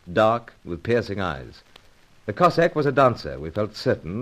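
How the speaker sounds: measured radio narration; story narration. A narrator's reading. The narrator tells the story to the listeners. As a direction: tell the listeners where things stand. Narrator recounts between scenes.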